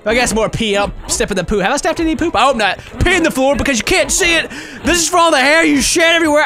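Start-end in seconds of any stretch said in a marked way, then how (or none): 3.0-6.4 ranting at the game dog while punching; mock angry shouting. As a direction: yell the grievances, half laughing.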